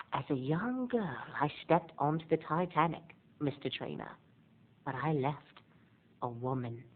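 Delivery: put-on soft, hushed old-lady reminiscing; breathy old Rose. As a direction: whisper the memory like an old woman. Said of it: "and she's like".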